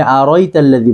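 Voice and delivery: "আরাইতাল্লাযী" run together quickly, middle glide squashed; mistaken pronunciation. Retold or imitated. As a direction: imitate the common slip in "আরাইতাল্লাযী", unchanted. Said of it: "অনেকে এই জায়গাটা ভুল করে". ("আরাইতাল্লাযী"-র ভুল, জোড়া লাগানো উচ্চারণ)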